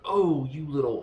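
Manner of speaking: loud retold burst of anger; cut-off curse, acted out loudly; mock outrage. Bond reacting to the drive-by, loud mock outrage.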